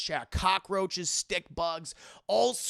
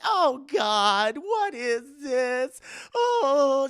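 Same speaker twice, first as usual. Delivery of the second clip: higher, much louder revolted cry; disgusted cry; 8 semitones higher, 8 dB louder, much slower than usual. Acted. Willie crying out in disgust at the bugs. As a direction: recoil at the crunching.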